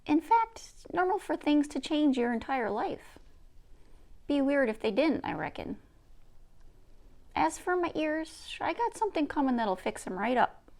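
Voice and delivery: a lightly played old woman, teasing and wise; Nokomis. Grandmother musing aloud.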